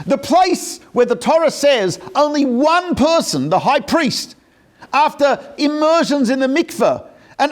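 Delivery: acted exasperation, voice held high; impassioned protest. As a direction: plead the obvious as the retold sages. Sages protest why they weep.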